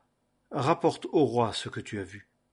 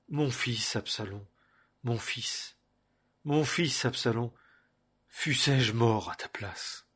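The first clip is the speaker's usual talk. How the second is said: grieving lament; slower than usual. Acted. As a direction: mourn his son, fading to almost nothing. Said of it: "Et le roi fut très ému".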